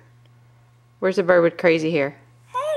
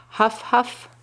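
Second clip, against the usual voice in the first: higher, playful huffs; caribou huffing; 5 semitones higher than usual. Pretend. Parent answers for the caribou, playful huffing. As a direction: huff like a caribou. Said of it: "What does the caribou say?".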